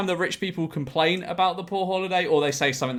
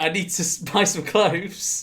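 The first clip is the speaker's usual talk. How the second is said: mock shop-name pun line; 4 semitones higher than usual. Shown as a demonstration. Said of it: "Or she can name her shop".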